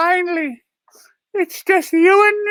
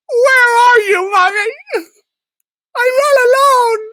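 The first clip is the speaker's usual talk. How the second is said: louder, plaintive wail; tearful calling out; 2 semitones higher, 3 dB louder than usual. Acted. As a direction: cry out for mommy, lost. Puppet calling out for mommy.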